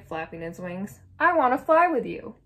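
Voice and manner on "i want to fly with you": high, loud eager call; storybook chick shouting after someone; shouted. A narrator's reading. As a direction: call out keenly, pitched right up. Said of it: "he shouted".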